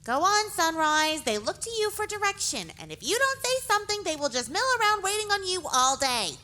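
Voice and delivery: high, soft, quick-tongued pony nagging her friend; impatient urging. A narrator's reading. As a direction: prod them impatiently in a small, high voice. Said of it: "Pink was being incredibly impatient".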